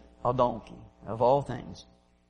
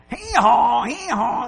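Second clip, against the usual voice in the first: loud high pained bray; hee-hawing donkey; 7 semitones higher, 6 dB louder, slower than usual. Retold or imitated. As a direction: bray as the stick lands. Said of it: "and then he hits it again".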